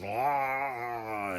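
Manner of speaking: long, drawn-out "aah" imitating a creature; mock snarl, held out in one breath; imitated snarly noise. Storyteller imitating the possessed guy climbing walls, mock snarly noise. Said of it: "snarly noise".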